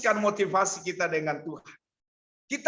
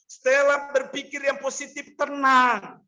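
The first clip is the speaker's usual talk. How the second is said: raised voice, urging her to think positive; urgent calling out; 2 semitones higher, slower than usual. Retold or imitated. Father urging his panicking daughter, raised voice. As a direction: call out firmly to calm her.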